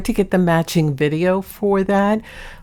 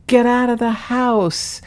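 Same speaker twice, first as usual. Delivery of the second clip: higher, slow drawn-out command; imitating the cat; 6 semitones higher than usual. Owner replaying her cat's words from a recording, high and slow. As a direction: lift it high and spell it out slowly. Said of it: "and he says".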